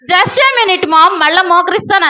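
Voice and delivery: lightly mimicked reluctant child; old Kevin putting mum off. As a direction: stall mum with a stretched-out call. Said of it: "అదే పాత Kevin అయితే ఏం చెప్పేవాడు?".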